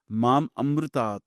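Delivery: "Mam Amritaat" said as two separate words; "Mam", slight break, then "Amritaat"; split pronunciation. Shown as a demonstration. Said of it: "say it like this".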